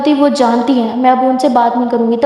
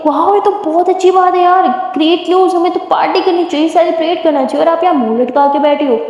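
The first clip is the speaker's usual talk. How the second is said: gleeful; 5 semitones higher than usual. Acted. Gleeful at news of divorce.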